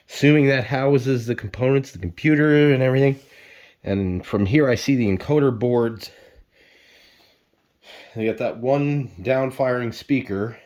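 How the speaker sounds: breathless, puffing between phrases; out of breath. Real, not acted. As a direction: talk while winded from lifting. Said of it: "I'm already out of breath".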